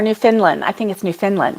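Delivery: "Newfoundland" as new-FIN-lin; "Newfoundland" reduced to Newfinlin. Shown as a demonstration. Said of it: "is it Newfoundland or Newfoundland?".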